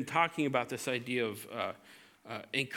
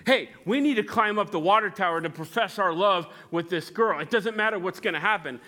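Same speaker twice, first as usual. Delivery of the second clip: louder, pushy voice urging the climb; eager frontal lobe; 4 semitones higher, 5 dB louder than usual. Acted. Frontal lobe urging the teen boy up the tower, eager and loud. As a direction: talk the kid into it, loud and keen. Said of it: "Here's the frontal lobe".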